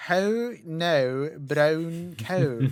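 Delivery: put-on drawn-out Scottish old lady; Muriel's Scottish accent. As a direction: imitate a cartoon old lady's Scottish lilt. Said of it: "think of Muriel going".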